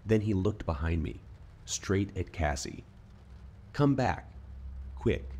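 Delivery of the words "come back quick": urgent high shout. Acted. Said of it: "she shouted".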